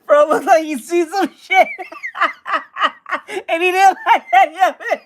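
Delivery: laughing. Real, not acted. Joking about the picture, laughing.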